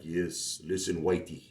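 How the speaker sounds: lightly imitating a Jamaican guy; Jamaican accent. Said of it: "this Jamaican guy came up to me, and he's like".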